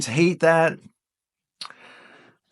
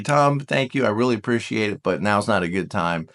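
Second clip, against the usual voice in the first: polite brush-off; 8 semitones lower, 3 dB quieter than usual. Pretend. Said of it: "more assertive and say".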